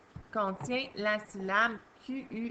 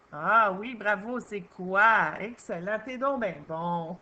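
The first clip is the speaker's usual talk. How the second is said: praise; 3 dB louder than usual. Real, not acted. Praising pupil's answer.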